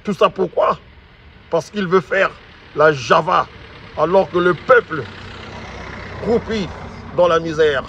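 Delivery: angry. Real, not acted. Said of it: "Je suis très énervé".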